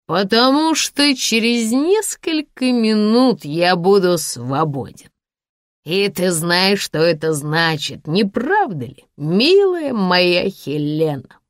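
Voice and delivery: put-on swaying drunk man gloating. Drunk Sasha voice.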